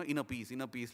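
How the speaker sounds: softly muttered mock mantra; Kung Fu Panda. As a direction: lightly imitate a repeated calming chant. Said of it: "like in Kung Fu Panda, he keeps doing".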